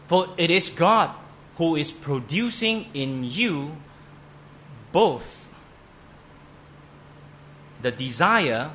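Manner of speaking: loud, ringing read of the verse; emphatic scripture reading. Real, not acted. Pastor proclaiming Philippians verse to congregation, loud emphatic reading.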